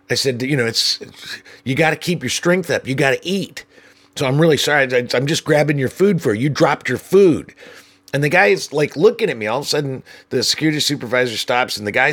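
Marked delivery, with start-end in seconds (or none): 0.4-7.5 fake helpful. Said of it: "trying to be as helpful as possible".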